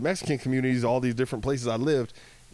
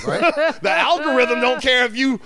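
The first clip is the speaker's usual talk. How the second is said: laughing through words; 10 dB louder than usual. Real, not acted. Laughing while talking.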